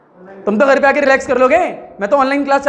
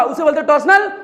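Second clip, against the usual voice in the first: emphatic shout. Shown as a demonstration. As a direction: punch the word टॉर्सनल out to the class. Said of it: "नहीं आया भाई". (टॉर्सनल शब्द पर ज़ोर से चिल्लाकर)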